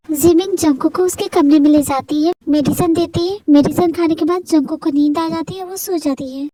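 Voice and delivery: low-pitched, matter-of-fact narrator; story narration. A narrator's reading. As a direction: step out and narrate the action. Narrates between acted scenes. (नीची आवाज़ में कहानी का वर्णन)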